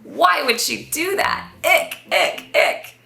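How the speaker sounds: loud, high playful grossed-out cries; disgusted. Acted. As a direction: kid squealing at something gross. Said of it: "tongue in disgust".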